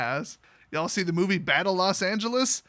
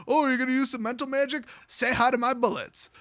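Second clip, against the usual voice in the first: higher, quick cocky taunt; mock taunt; 5 semitones higher than usual. Gun-toting Jace mocks a mental mage, taunting. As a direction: taunt a wizard while pulling a gun.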